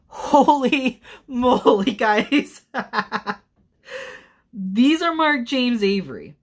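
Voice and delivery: high, loud astonished outburst with a laugh; stunned, high and loud; amazed. Real, not acted. Jewelry unboxer tells viewers of a surprise find, amazed.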